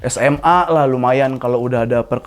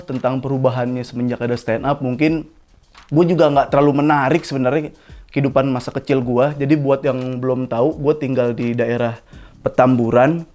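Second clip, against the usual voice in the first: normal talking voice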